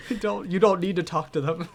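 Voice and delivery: ordinary talk, nothing marked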